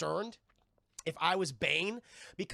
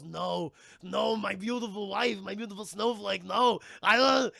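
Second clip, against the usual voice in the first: louder wailing grief; hammed-up anguish; 7 dB louder than usual. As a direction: cry out over a lost wife. Freeze grieving wife.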